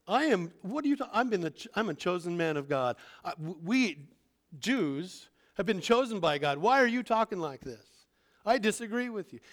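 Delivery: lightly voiced indignant listener; offended Jew. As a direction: protest as an insulted chosen man. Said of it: "Them are fighting words".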